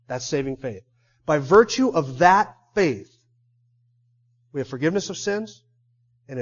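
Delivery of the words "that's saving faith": quiet restatement. Real, not acted. Preacher quietly restating saving faith to listeners, low and soft. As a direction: drop well down in pitch and volume.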